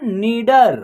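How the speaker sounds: नीडर with a long first vowel; pronunciation demo. Shown as a demonstration. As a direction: sound out नीडर in two held syllables. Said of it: "क्या हो जाएगा उच्चारण?". (नीडर का खींचकर उच्चारण)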